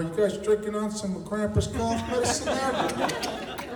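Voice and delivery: a hint of a creepy movie weirdo, drawn out; freak character voice. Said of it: "That kind of freak".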